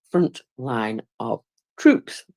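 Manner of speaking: words stretched by a yawn. Real, not acted. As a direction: talk through a rising yawn. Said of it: "Yawn keeps trying to slap me one".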